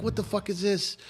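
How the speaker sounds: high-pitched outraged supervisor, retold; retold indignant demand; mock yell. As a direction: imitate a yell without the volume. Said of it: "He starts yelling at all the".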